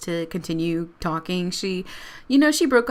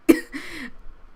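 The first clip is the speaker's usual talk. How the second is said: real laugh; 10 semitones higher than usual. Real, not acted. Laughing at drunk Marco.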